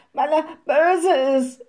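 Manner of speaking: high, loud indignant exclamation; crying out. A narrator's reading. Women answer the witch about the forester, crying out. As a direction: call it out in protest. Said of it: "riefen die Weiber".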